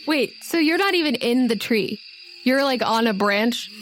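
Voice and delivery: ordinary talk, nothing marked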